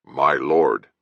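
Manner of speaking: a curt reminder of the title; prompting guard. Acted. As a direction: poke her into saying my lord. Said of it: "jabbed her shoulder ... and prompted".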